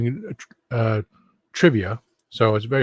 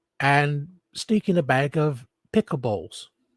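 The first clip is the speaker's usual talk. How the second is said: put-on British accent, higher; 4 semitones higher than usual. Showing what an American would say in a British accent. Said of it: "what an American would say with a British, with a British accent".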